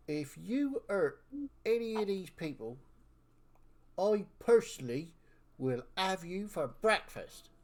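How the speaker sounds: put-on stern old-timer's threat; threatening elder. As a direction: warn the dragon with deliberate, spaced phrases.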